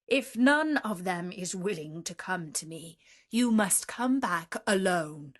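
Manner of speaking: loud orders, rising to a threat; commanding beast. Acted. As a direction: warn him he cannot hide. Beast gives the merchant orders.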